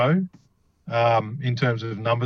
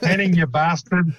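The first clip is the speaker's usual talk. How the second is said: bad South African accent; 5 semitones higher than usual. Teasing absent mate Henning in a bad South African accent. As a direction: throw a mock South African jab at a mate. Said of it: "that was a terrible rendition of a South African accent".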